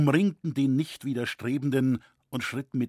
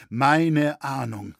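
louder, slow despairing cry; anguished outcry; 2 semitones higher, 8 dB louder, slower than usual. A narrator's reading. Roritzer lamenting his foreboding, anguished outcry. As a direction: let the grief burst out.

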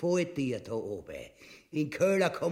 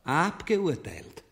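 shouted verdict; slower than usual. Acted. King passes sentence.

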